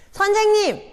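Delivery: high, loud cheeky questions to the teacher; cheeky calling out. Acted. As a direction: call out to annoy the teacher. Boy calls out cheekily.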